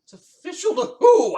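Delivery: sudden high squeaky voice; high squeak. Acted. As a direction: pitch it up into a squeak. Mock owl hooting.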